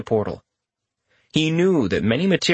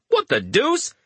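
surprised; 13 semitones higher, slower than usual. Retold or imitated. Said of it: "A portion wanted to say".

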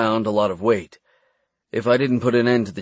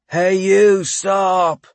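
loud, higher shout; 9 semitones higher, 4 dB louder, much slower than usual. A narrator's reading. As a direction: cry out to stop him. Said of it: "I heard a voice cry".

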